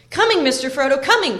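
high, loud urgent call. A narrator's reading. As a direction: shout it across to someone leaving. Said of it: "called Sam".

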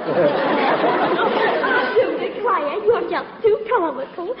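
drawn-out Southern belle drawl. Acted. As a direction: stretch "I do declare" slowly like a Southern belle. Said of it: "my little old southern routine".

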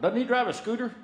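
a muttering official, then up on scooter; puzzled bureaucrat recalling the name; lightly voiced skeptical official; mock Pentagon official. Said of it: "somebody at the Pentagon's gonna go".

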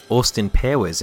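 "Austin Powers" in a poor Aussie accent; Australian accent attempt. Shown as a demonstration. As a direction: try out a fake Australian accent. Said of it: "in an Australian accent".

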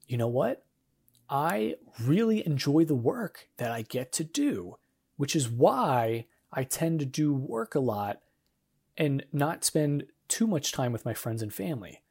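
unhurried upbeat reframing; positive reframe. Shown as a demonstration. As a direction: say it like you're grateful for it. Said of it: "Even in my tone of voice".

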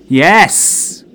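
medium's excited exclamation; excited cry. Acted. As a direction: cry it out as the spirits arrive. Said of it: "cried Norma Greenwood excitedly".

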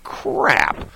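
sudden high yelp of dismay; dismayed crap. Retold or imitated. Realising his gear fell out, a high dismayed crap. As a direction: blurt it out in shock. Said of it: "I thought to myself".

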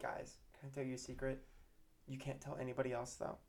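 hushed, dropping to a near-whisper; confiding secret. Retold or imitated. Teacher telling pupils a secret, hushed and conspiratorial. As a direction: let the class in on a secret, softly.

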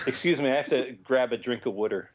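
put-on Philly accent with "wooder" for water; lightly put-on Philly accent. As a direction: say it like a Philadelphian. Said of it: "That's another Philly thing".

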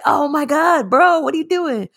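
pretending to be appalled; mock shocked. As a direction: gasp it out in disbelief. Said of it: "you're like".

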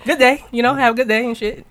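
casual phone voice. Shown as a demonstration. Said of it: "And I just talk to you".

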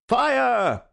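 loud, high cry of alarm; full-voiced, drawn-out yell. A narrator's reading. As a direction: shout it out to raise the house. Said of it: "we all yelled".

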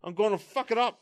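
high-pitched put-on threat; hammed-up raging monster. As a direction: threaten like a comic rampaging monster. Voicing raging Hulk's threat.

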